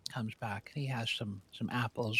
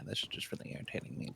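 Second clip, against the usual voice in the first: whispered irritated mutter; muttered aside; 6 dB quieter, faster than usual. Real, not acted. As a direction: grumble it under your breath, fast. Irritated aside mid-joke.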